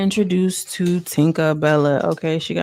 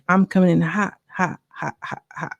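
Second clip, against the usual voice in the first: "hot" repeated, fading away to a breath; mock catchphrase with a trailing echo. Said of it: "she comes in with the energy".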